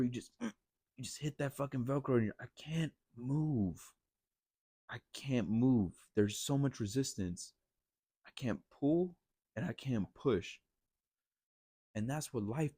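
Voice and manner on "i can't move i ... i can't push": slow, drawn-out strain against resistance; acted struggle. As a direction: act stuck, stretching out each attempt. Acts out being stuck against resistance.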